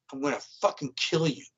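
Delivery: a hushed, menacing death threat. Retold or imitated. Jesse grabs him and warns him to stay silent, quiet menace. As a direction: drop the voice and mean every word.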